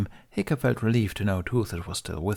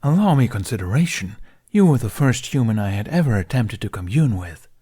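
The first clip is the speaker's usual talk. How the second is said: louder, deadpan teasing dragon; dry dragon; 8 dB louder than usual. A narrator's reading. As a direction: tease him with a straight face. Toothless defends himself.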